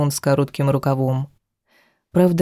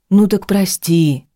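louder, slower outburst of a man losing patience; exploding; 4 semitones higher, 4 dB louder than usual. A narrator's reading. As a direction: burst out, drawn-out plea. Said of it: "взорвался Вадим".

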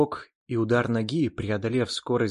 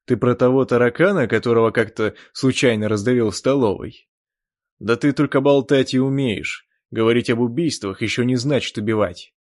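loud scornful jeering; mock him openly; loud taunt; 8 dB louder than usual. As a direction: Chan belittling the elf. Chan taunting the elf.

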